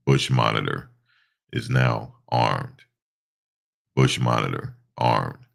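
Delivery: slow, lightly robotic announcement; Optimus Prime voice. Pretend. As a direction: announce it like a heavy robot hero. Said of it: "In my Optimus Prime voice".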